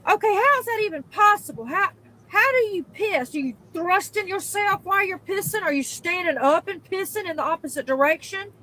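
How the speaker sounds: high, disbelieving questions; incredulous. Real, not acted. Baffled at a stranger's aim, high and incredulous. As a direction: ask like it makes no sense.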